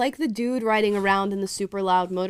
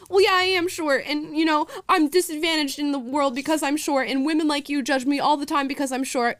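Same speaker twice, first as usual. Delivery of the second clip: lightly voiced defensive man, higher pitched; a hint of a whiny, wounded guy; insecure short man; 6 semitones higher than usual. Short man A answering a rude woman, lightly whiny. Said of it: "And he goes".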